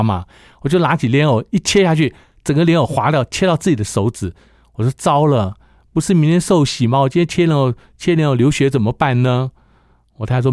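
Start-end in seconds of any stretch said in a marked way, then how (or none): 5.0-9.5 higher-pitched, mildly panicked worry; retold dismay. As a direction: replay a fretful "what now?" moment. Retells dismay after cutting finger.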